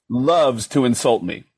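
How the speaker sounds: ordinary talk, nothing marked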